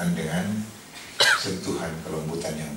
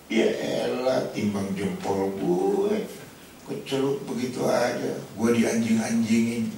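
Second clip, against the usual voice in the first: grumbling servant; 3 semitones higher, slower than usual. Retold or imitated. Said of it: "sambil ngedumel".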